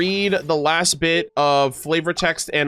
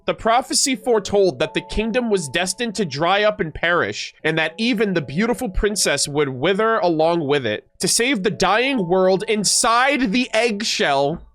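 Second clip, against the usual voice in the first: fairy-tale narration; 4 semitones higher than usual. Acted. Storyteller offers a different kind of story, deliberate fairy-tale telling. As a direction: savor it like an old legend. Reads prophecy aloud.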